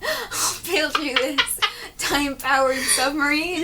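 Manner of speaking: put-on slow, high, sweet old fellow; old man voice. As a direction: play a gentle eccentric old inventor. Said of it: "but an old voice".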